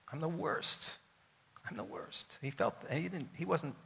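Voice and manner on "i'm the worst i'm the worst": quiet, sincere self-abasement; heartfelt confession. Acted. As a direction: say it softly and mean it. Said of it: "he meant it".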